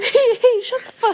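squeaky laughing copy; laughing echo. Pretend. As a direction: mimic the scolding through giggles. Echoing friend's mock scold.

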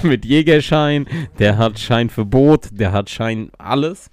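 langsam, lachend aufzählen; laughing. Real, not acted. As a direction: lachend und langsam spotten. Lacht über den erfolgreichen Freund. (lachend aufzählend)

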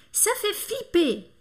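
Ça fait flipper high and slow, in one connected run; joined-up model phrase. Shown as a demonstration. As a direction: lift the pitch and say "Ça fait flipper" as a whole. Teacher repeats the expression joined up.

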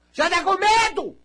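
mock-teasing the scared listener, high; mocking high question. Real, not acted. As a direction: tease the fear up high.

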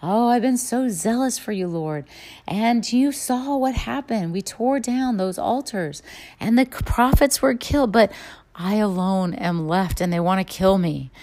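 mildly whining complaint to God; self-pitying victim voice. Retold or imitated. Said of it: "Elijah responds with the voice of the victim".

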